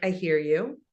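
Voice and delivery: quiet reassuring listener; calm empathic reply. Shown as a demonstration. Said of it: "I'll say something like".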